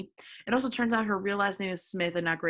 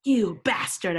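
mock angry shout; 5 dB louder, slower than usual. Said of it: "I shouted angrily".

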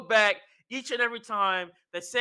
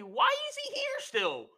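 very high, softer squeaky protest; mock whiny complaint; 6 dB quieter than usual. Imitating Heyman objecting to Sami, soft high whine.

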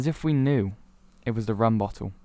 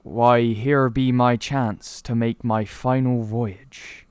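pirate voice; 3 dB louder, much slower than usual. Acted. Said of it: "he goes".

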